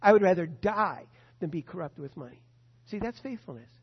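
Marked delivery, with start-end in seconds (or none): 0.0-2.4 fervent vow. Acted. Preacher's climactic vow.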